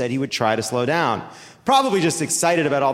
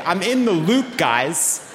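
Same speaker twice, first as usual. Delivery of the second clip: mock crying; 2 semitones higher, slower than usual.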